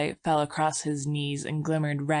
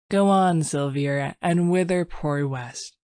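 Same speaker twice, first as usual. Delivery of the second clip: gaily; 3 dB louder than usual. Acted. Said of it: "he spoke again gaily".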